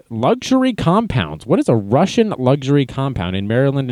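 mocking disbelief at "Luxury compounds"; incredulous. Shown as a demonstration. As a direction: question it with disbelief. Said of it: "luxury compounds in Maryland".

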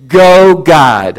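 loud, excited shout of praise; loud cheer. Retold or imitated. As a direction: cheer God on like a sports fan. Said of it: "much louder".

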